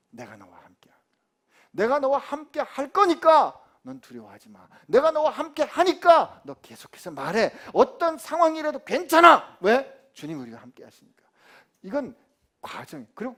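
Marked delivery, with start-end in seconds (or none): 0.1-0.9 hushed whisper of the Lord's promise. Acted. Pastor whispering the Lord's promise to Paul. 1.7-9.6 loud, emphatic preaching; full-force preaching. Acted. Pastor voicing the Lord to Paul, loud preaching.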